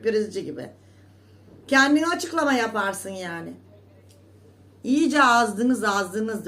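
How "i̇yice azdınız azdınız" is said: drawn out, loud reproach; slow scolding. Real, not acted. Telling off gossiping rivals, slow and loud. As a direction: stretch the first word in disgust.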